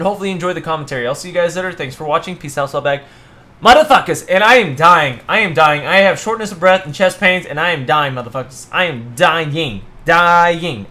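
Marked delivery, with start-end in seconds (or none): 3.6-10.9 loud hammed-up dying groans; mock death throes, shouting; overacted death scene. Gamer hams up dying in-game.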